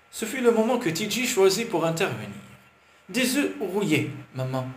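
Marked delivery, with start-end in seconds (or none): 3.1-4.7 put-on a small child pleading for eggs, a touch raised; hopeful little boy voice, slowed. A narrator's reading. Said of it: "fit-il d'un ton plein d'espoir".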